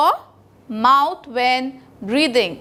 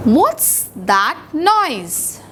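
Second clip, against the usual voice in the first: What's that noise? said slowly, word by word; slow for repeating; much slower than usual. Shown as a demonstration. Teacher reads slowly so children can repeat. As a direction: read it out slowly for the class to copy. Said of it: "I will read out to you and you will repeat after me".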